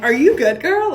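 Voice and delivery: put-on loud, pitch jumping high on girl; exaggerated gasp of concern to a friend; mock concerned shout. To her friend Chandler, loud mock concern. Asking friend if she's okay.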